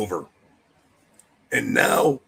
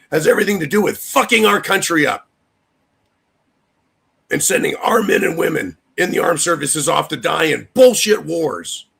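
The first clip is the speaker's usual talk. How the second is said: raised, heated rant climbing higher; passionate rant; 4 semitones higher, 3 dB louder than usual. Real, not acted. Ranting about his country, heated and raised. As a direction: build the anger and let it spill over. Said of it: "You can tell I'm a little passionate about this".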